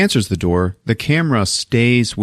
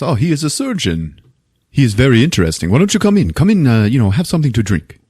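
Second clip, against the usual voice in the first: higher-pitched, swooping host voice; Javier; 4 semitones higher than usual. Retold or imitated. Javier invites the surgeon in for a drink, hammed-up eager welcome. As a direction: play an effusive host, hammed-up. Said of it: "So Javier is like".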